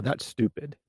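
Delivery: scornful, with a rise on That's; mock a contemptuous put-down; harsh dismissal. Shown as a demonstration. Demo of a rude reply to an idea, scornful. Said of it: "That's a lot less harsh than".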